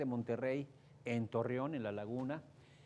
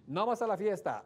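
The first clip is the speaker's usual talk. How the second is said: mock bossy order; 5 semitones higher, 6 dB louder than usual. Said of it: "La pareja lucha".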